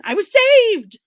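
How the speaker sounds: high, loud burst of relief; relieved cry. A narrator's reading. Narrator hearing a rescuer, relieved. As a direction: cheer it with relief.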